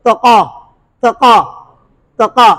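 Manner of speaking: तका with the ta broken into t-ka; wrong split ta. Shown as a demonstration. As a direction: show the faulty two-letter ta. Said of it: "तौ को तका नहीं पढ़ेंगे".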